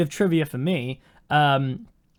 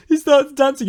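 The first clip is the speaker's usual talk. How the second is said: excited; 8 semitones higher, 7 dB louder than usual. Retold or imitated. Retelling a dancing villain.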